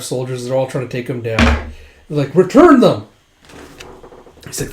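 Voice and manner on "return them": loud, high command; retold battlefield demand; acted shouted demand. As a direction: yell it as an order.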